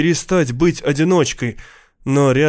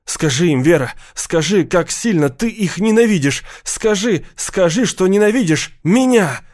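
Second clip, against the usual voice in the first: desperate pleading; 6 semitones higher than usual. Acted. Steve begs Vera desperately.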